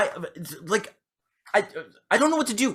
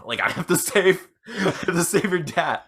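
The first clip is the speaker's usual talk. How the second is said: laughing heroic resolve; 4 semitones higher than usual. Retold or imitated. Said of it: "And I'm like".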